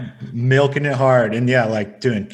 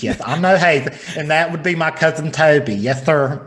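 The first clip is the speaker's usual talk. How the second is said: put-on feminine Southern accent. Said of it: "my feminine Southern man accent".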